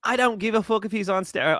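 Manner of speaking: put-on botched Mark Hunt-style Australian accent; bad Australian accent that could pass for British; terrible Australian accent. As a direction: attempt an Australian accent and get it wrong. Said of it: "I'm doing a terrible Australian accent".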